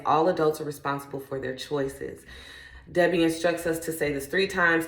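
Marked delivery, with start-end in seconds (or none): 0.1-2.2 calm affirmation. Acted. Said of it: "the affirmation for today is".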